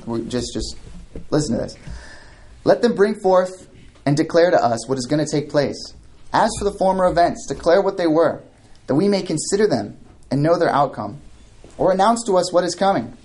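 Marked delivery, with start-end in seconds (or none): 2.6-13.2 raised-pitch mocking challenge from scripture; holy sarcasm. Preacher reads God's challenge to false gods, sarcastic. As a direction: read the challenge with pointed sarcasm. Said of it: "holy sarcasm here".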